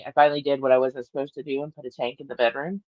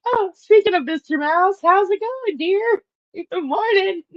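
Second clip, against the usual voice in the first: sing-song greeting; 13 semitones higher than usual. Real, not acted. Teasing the snoring husband with a high sing-song hello. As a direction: sweetly tease him good morning.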